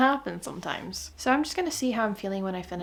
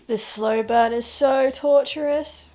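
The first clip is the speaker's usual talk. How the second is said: exasperated gushing; 6 semitones higher, 6 dB louder than usual. Real, not acted. Gushing over a slow-burn romance.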